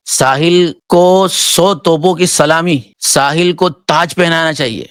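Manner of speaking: slow, drawn-out mock salute to Sahil; sarcastic praise. Real, not acted. Mocking the ex-Muslim, slow sarcastic praise. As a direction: lay the sarcasm on thick, slowly.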